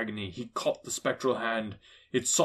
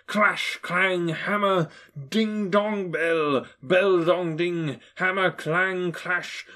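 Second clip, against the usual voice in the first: slow, louder, chiming words; ringing bell rhythm; 5 semitones higher, 5 dB louder, much slower than usual. A narrator's reading. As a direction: toll each word like a bell. Narrating bells rhythmically.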